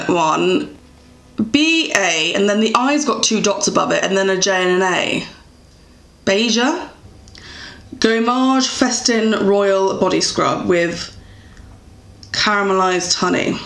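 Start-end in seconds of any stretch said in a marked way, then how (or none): 6.2-10.0 mock French accent. Shown as a demonstration. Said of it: "my accents are, like I said, shocking".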